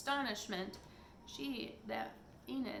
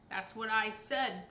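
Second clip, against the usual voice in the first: louder bad-tempered snap; thundering giant; 5 dB louder than usual. Bad-tempered giant snaps at the pixie, louder. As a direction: boom it back at the pixie. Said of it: "thundered the bad-tempered giant".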